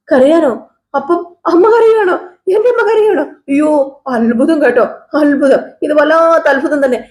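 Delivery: high, laughing disbelief; mock amazement. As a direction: tease her with a laughing squeal.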